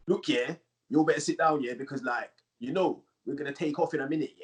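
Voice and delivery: lightly voiced roadman making a cabin announcement; roadman pilot. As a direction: give a tannoy announcement in a hint of roadman. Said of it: "imagine, like, a roadman aeroplane pilot".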